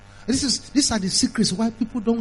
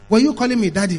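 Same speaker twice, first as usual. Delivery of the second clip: put-on questioning boy Samuel; 3 semitones higher, 4 dB louder, faster than usual. Young Samuel runs to ask Eli.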